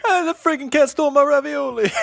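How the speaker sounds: very high, loud cartoon rant; mock yelling. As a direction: yell like a comically outraged neighbor. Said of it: "the guy's still yelling in Greek".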